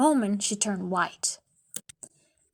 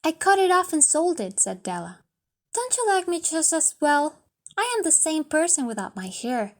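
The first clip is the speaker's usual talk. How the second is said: put-on higher young woman's voice, coaxing and anxious; pleading young wife; 5 semitones higher than usual. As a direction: coax him not to be upset. Della defends her choice.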